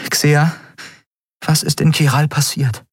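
character voice. A narrator's reading. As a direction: voice Endriel up high. Endriel asks.

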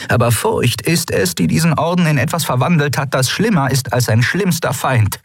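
a commander laying bare a hard truth; earnest admiral. A narrator's reading. Admiral addresses the council. (ernste Admiralin)

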